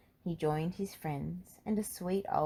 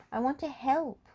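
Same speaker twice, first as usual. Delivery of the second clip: higher, louder eager plea; 9 semitones higher, 5 dB louder than usual. A narrator's reading. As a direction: beg to join the crew, keen. Dusty eager to join firefighting.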